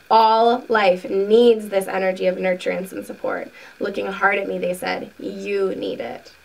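deliberate reading with stressed key words; measured, emphatic book narration; book read-aloud. A narrator's reading. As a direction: read a spiritual teaching aloud, unhurried. Reads book passage aloud.

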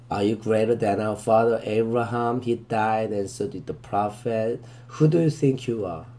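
very slow, deliberate verse reading, word by word; slow scripture reading. Shown as a demonstration. Teacher reading the verse to students, very slow and deliberate. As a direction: read it out slowly so students can follow.

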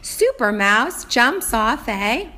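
slow, drawn-out storybook reading; reading to a toddler. Acted. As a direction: read each word slowly to a small child. Teacher reads the book aloud.

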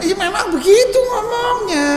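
high, loud comic protest; mock exasperation. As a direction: holler it in playful exasperation. Mock-exasperated defence of loud speakers. (protes lantang pura-pura kesal)

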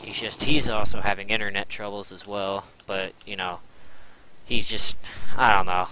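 tripping over his words, stammering; stuttering. Real, not acted. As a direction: stutter and restart the sentence. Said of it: "I'm stuttering so hard right now".

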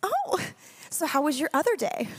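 put-on high, bright little girl asking; imitating daughter. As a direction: squeal the "Oh" like a toddler. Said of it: "and she goes".

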